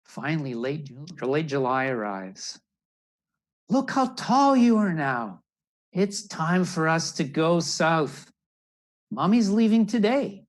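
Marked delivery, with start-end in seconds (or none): 3.7-10.5 high, loud mother bird calling to her chick; a proud mom telling her baby it's time. Acted. Mother bird tells her grown chick she's leaving, high and loud.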